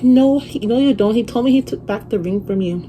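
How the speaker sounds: high, loud imitation of the other woman; mimicked rival's denial. Acts out rival denying the ring.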